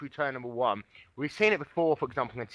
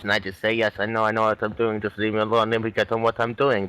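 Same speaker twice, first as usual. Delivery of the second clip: Kimi impression; 3 semitones lower than usual. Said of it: "do a Kimi impression".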